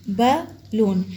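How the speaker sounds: बलून split as ब, लून; two syllables. Shown as a demonstration. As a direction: break बलून into two separate beats. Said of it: "ये two syllable word है".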